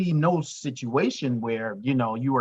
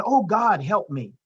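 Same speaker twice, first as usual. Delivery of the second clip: crying out; 4 semitones higher than usual. Acted. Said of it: "He cried out again".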